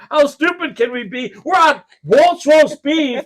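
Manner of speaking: high-pitched, mock-outraged disbelief; comic incredulous tirade; exasperated rant. Acted rant at dad's order.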